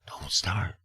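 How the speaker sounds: warning repeated. Retold or imitated. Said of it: "I heard it a million times".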